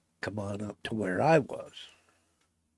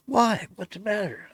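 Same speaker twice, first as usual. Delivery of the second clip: baffled buddy; 10 semitones higher than usual. Retold or imitated.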